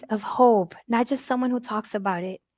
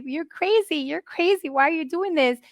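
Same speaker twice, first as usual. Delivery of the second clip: higher, reproachful protest; mild accusing protest; 6 semitones higher than usual. Retold or imitated. Mother fighting with God, higher accusing protest. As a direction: accuse God, half in tears. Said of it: "I would fight with God".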